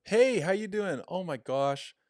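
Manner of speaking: high, loud, over-friendly greeting; fake-bubbly retail greeter; salesman retail voice. Shown as a demonstration. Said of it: "It's like the salesman retail voice".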